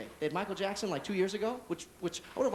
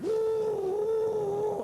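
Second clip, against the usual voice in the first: much higher, loud woo; whoop of joy; 6 dB louder than usual. Acted. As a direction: yell like a racing driver. Speeding joyfully.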